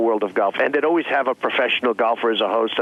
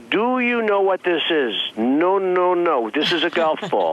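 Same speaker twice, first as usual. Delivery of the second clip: mock patient explaining to a beginner, higher pitch; slow teacher voice; 4 semitones higher, slower than usual. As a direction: spell it out slowly, like to a child. Retelling lesson for Miss Universe.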